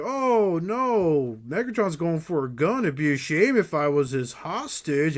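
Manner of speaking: hammed-up "oh no", starting high and drawn out; mock dismay. Parodying Optimus Prime's death scene, mock dismay. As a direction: overplay the alarm like a bad actor.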